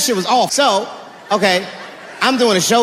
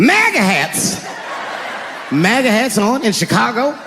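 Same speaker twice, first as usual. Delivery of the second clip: mock whiny kid. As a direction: say it like an obvious lie. The kid answering the cop.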